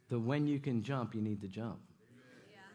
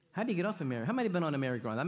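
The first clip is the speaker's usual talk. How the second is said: rapid loud question to crowd; 3 semitones higher, 5 dB louder, much faster than usual. Real, not acted. Asks crowd.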